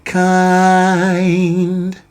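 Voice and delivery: "Kind" with the D sounded at the end; clear final D. Shown as a demonstration. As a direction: sing "Kind", finish on the D. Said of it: "you heard the D at the end".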